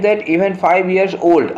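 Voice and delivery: reading the sentence very slowly, word by word; slow dictation read. Shown as a demonstration. Teacher reading the question sentence to students, very slow and deliberate. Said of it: "reads the exam sentence aloud".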